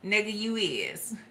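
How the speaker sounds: whispered aside. Real, not acted. Whispering to the listener, a whispered jab. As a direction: breathe it out in a whisper.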